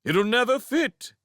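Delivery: high, skeptical crowd voice; doubtful townsfolk. A narrator's reading.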